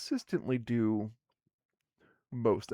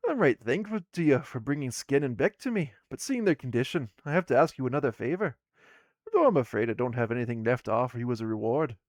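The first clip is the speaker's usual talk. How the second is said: louder, fast, earnest dwarf plea; apologetic dwarf woman; 6 dB louder, faster than usual. Acted. Dwarf woman asking players another favor, fast loud plea. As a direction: thank them, then rush the favor out.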